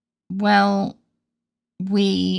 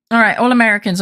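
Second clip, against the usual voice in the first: put-on American accent; 3 semitones higher, 5 dB louder, faster than usual. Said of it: "I can't do an American accent".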